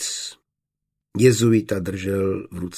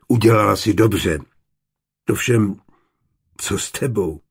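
troubled sigh; 4 dB louder than usual. Acted. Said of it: "povzdechl si utrápeně Johann".

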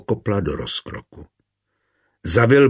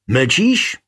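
restrained shout, higher pitch; narrated roar; 4 semitones higher, 4 dB louder than usual. A narrator's reading. Husband to his silent wife, restrained angry shout. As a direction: demand an answer in a half-held roar. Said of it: "zařval".

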